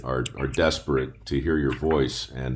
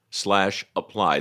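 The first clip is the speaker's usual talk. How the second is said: quick web address; 3 semitones higher, much faster than usual. Shown as a demonstration. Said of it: "repeats web address".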